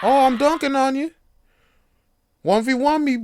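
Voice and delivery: put-on loud, high kid taunting; trash talking kid. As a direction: shout the taunt like a cocky kid. Child trash talking on court.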